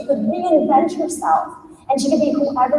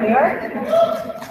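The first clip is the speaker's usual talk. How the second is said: higher, drawn-out rising New York; a wistful, higher New York with a rise; awed dreamy echo; 6 semitones higher, 3 dB quieter than usual. Acted. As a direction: breathe New York like a dream come true. Dreamy echo of city name.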